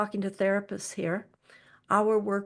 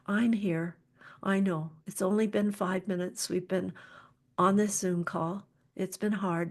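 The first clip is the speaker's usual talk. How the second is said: really soft. Shown as a demonstration. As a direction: soothe someone who has given up. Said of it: "I get really, really soft".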